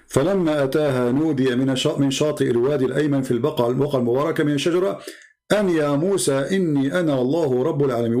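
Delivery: fast, fluent Arabic recitation; Quran recitation in Arabic. Acted. Reciting the Arabic verse to challenge an opponent, brisk recitation.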